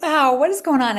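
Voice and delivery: reliving the shock of her numbers; amazed wow. Retold or imitated. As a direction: gasp it out in wonder. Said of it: "I just was like".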